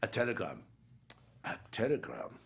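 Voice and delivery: put-on German accent, halting. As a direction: try the line out in a German accent. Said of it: "he's got a German accent all of a sudden".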